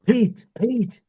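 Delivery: high, mock call to someone on mute. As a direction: call up to him as if he can't hear. Calling to a muted co-host.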